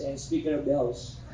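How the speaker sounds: chuckling through the punchline; laughing. Real, not acted. Teacher joking to class about his wife's titles, laughing. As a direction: let a laugh break into the last title.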